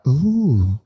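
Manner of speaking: lightly breathy Hull accent, imitating a fussy friend; a hint of a breathy Hull woman being polite; Marion's breathy Hull voice. Fussy friend from Hull accepting tea, lightly breathy Hull accent. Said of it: "Marion's from Hull and talks like that. Everything's very breathy".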